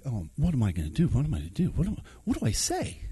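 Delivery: hushed, hurried fretting; softly panicking under the breath; anxious self-talk. Retold or imitated. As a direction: mutter a worried run of questions. Anxious self-talk on walk over.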